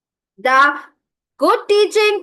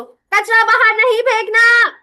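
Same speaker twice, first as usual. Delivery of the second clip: put-on sharp scolding at the kids, pitched up; scolding shout; 5 semitones higher, 4 dB louder than usual. Shown as a demonstration. Teacher scolding children about trash, angry raised voice. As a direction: bark the order like a fed-up mother. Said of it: "मैं डांट डांट के समझाती रहूं".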